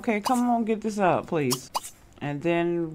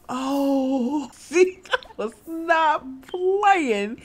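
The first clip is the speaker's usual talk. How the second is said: laugh-cry protest; 8 semitones higher, much slower than usual. Real, not acted. Laughing so hard she cries.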